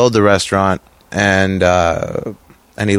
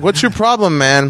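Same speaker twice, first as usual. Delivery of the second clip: high indignant mock; 7 semitones higher than usual. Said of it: "they'd be like".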